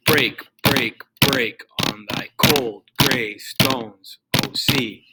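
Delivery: every word of "Break, break, break" and "cold gray stones" hit hard, slowly; heavy, intense spondees. Shown as a demonstration. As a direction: drive each accented word home from "Break" to "sea". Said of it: "supposed to sound very, like, heavy and intense".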